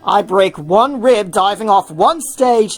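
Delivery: mock complaint; the speaker's retort. The speaker protesting to Tim, mock aggrieved.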